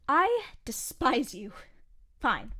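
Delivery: slow, dragged-out I despise you; drawn-out mock loathing; deadpan disgust. Real, not acted. Grudgingly agreeing after being baited.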